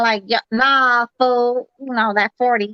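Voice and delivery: light imitation of an LA accent. Teasing a caller about his LA accent, slow mock LA drawl. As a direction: drawl it out slowly, LA style. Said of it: "I can tell by that accent".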